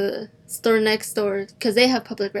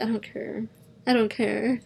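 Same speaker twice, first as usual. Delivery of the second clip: muttered to self; 6 dB quieter than usual. Retold or imitated. Retold annoyance after customer leaves.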